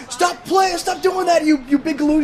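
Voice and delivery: high, loud dopey yell; dopey cartoon bellow. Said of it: "and he's like".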